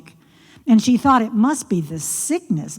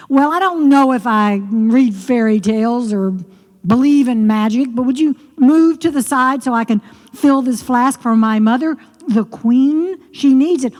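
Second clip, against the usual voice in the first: impatient princess; 3 semitones higher, 5 dB louder than usual. Acted. Daughter answers frog.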